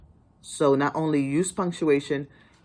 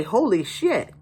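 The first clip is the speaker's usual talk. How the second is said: exclaimed; 6 semitones higher, slower than usual. Shown as a demonstration. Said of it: "that's an exclamation point".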